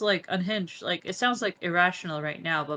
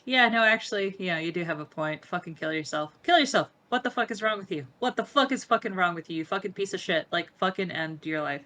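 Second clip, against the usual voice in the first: retold rage; 2 semitones higher than usual. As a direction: spit it out as raw retold fury. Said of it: "the anger that I feel".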